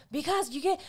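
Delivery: getting mad. Acted. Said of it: "he's getting mad".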